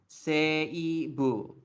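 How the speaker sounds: "Seibu" with the E and I sounded separately; careful three-part "Seibu", se-i-bu; separated vowels. Shown as a demonstration. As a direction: say "Seibu" as se-i-bu, each vowel distinct. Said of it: "you don't really pronounce, like, Seibu".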